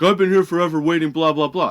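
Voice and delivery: mock yell of an irate customer; retold yelling. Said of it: "yelling at me, doing the whole".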